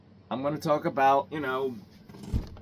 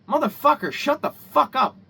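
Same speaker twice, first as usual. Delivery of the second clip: angry cursing; 7 semitones higher, 6 dB louder than usual. Real, not acted. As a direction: tell them off hard, drawing it out. Cursing out imagined office worker.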